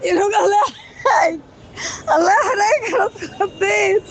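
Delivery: startled mother crying out; real fright, voice breaking as she yells; half sobbing, half shouting in alarm; panicked crying shout. Real, not acted. Mother panics at prank call.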